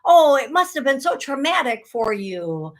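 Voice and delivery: mock sympathy. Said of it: "And then we're like".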